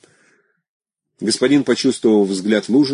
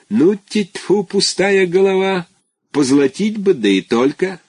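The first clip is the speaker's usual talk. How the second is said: a hint of a trembling old schoolmaster, higher; shaky old teacher; 11 semitones higher, 3 dB louder, slower than usual. Petrishchev imitating an old teacher's scolding, mock trembling. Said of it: "помните, как он, трясясь, говорил".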